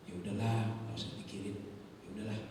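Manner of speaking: low, soft, resigned comfort; calm someone down quietly; soothing reassurance. Acted. Soothes crying housemaid, retold. (menenangkan dengan suara rendah)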